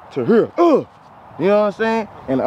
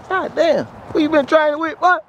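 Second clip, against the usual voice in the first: higher, excited hype; excited praise; 7 semitones higher than usual. Real, not acted. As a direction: hype up the player. Coach hyping a good rep.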